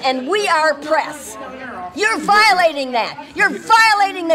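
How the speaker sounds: real rising anger at the guards. Real, not acted. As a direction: hammer home the accusation. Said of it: "You need to lower your voice".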